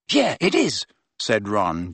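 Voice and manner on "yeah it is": high, curt angry retort. Acted. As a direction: snap back angrily. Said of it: "just as angrily".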